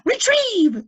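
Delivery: high, loud command; command to fetch. A narrator's reading. Boy ordering his pet, high and loud. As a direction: send the pet after the purse. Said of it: "said Lois".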